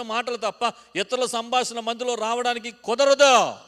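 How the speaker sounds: loud, high, insistent rebuke; thundering pulpit prohibition; preaching at full force. Real, not acted. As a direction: drive each line up to a shout.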